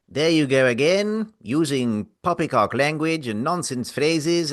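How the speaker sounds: put-on a blustering old-fashioned gentleman; pompous old gent. Public service announcement character.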